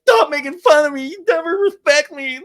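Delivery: high, loud, wounded whine; mock the hurt boyfriend, loud and high; whiny offended Sandoval. Sandoval voiced whining, offended.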